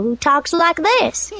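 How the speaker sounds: slow sweet eager-to-help voice; helpful voice. Shown as a demonstration. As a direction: say it slowly, keen to help. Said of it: "And Little Miss Helpful".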